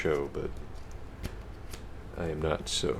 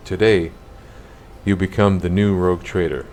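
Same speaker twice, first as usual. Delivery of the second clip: menacing sorcerer; 9 dB louder than usual. Acted. Sorcerer addresses the player.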